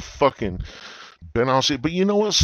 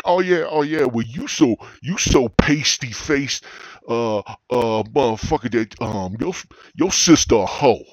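high, loud stammering insult; flustered comeback; 3 semitones higher, 5 dB louder than usual. Retold or imitated. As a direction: scramble and bluster a weak comeback. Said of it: "You're like".

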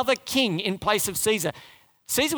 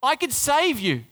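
Pilate's boast; 4 semitones higher than usual. Retold or imitated. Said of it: "what Pilate's saying".

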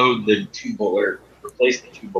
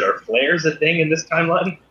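higher and louder so it carries; repeated louder; 7 semitones higher than usual. Real, not acted. Player repeats a question the game master missed, louder. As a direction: say it again so the game master hears. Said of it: "What'd you say?".

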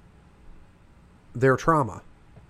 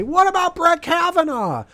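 mock scream. Republicans at the hearing screaming about Kavanaugh, mock scream. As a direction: shriek it like a hysterical Republican. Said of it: "sit there and scream and say".

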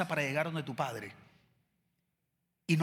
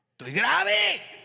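"grave" dragged out high and slow; high drawn-out complaint; 9 semitones higher, much slower than usual. Shown as a demonstration. Preacher showing a whiny high moan. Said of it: "demo take".

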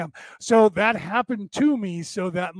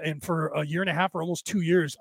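ordinary delivery

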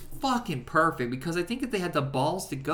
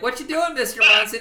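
quoting, higher pitch; 9 semitones higher, 8 dB louder than usual. Retold or imitated. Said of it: "he's like".

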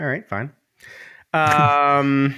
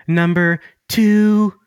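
countdown announcer; 5 semitones higher, 4 dB louder, much slower than usual. Shown as a demonstration. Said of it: "like on a countdown".

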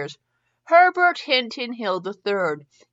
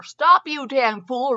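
shout; 4 semitones higher, 4 dB louder, much slower than usual. Acted. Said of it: "Rhett had shouted".

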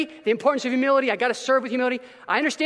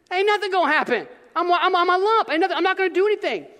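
mock lazy lump; 8 semitones higher than usual. Mocking himself as lazy lump.

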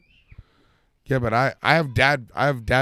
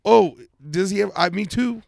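mocking friend voice; 7 semitones higher, 4 dB louder than usual. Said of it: "I was like".

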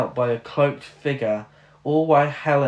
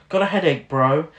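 frat bro voice; 7 dB louder than usual. Retold or imitated.

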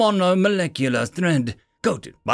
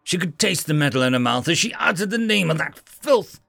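grim tone; 4 semitones higher than usual. Acted. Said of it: "a grim tone falling upon her tongue".

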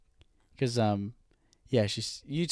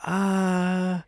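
mock psychic, laughing; 6 semitones higher, much slower than usual. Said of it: "She was like".

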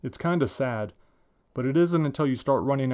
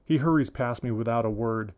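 usual speaking voice

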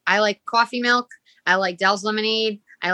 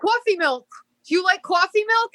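mocking the manager; 10 semitones higher than usual. Imitating manager asking about coffee.

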